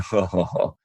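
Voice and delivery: imitated scornful table chuckle; mock snicker. Whole table reacting to a dumb question, mock snicker. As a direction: mimic a group snickering at someone. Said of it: "you can almost hear the snicker".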